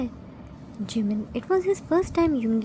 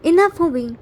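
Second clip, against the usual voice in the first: stern enough; 4 semitones higher, 7 dB louder than usual. A narrator's reading. Father stops child's tantrum.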